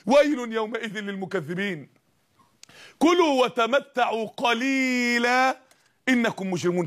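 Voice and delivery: measured Quranic chant; slow Quran recitation. Acted. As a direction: draw out the verse slowly and solemnly. Closing verse recited slowly.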